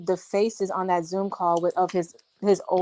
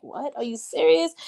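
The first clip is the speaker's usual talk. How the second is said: higher, disbelieving cry; shocked disbelief; 5 semitones higher than usual. Retold or imitated. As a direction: react as if you can't believe it. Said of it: "Courtney put up his hand like".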